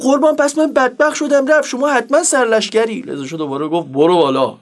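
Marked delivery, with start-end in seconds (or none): 0.0-3.0 high-pitched acted dismay; hammed-up rising panic; alarmed pleading. Driver's worry grows in the tale. 3.9-4.6 low, curt tough-guy command; lower-pitched swaggering retort; thuggish Reza Shah. Retold or imitated. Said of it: "دوباره با همون حالتش گفت".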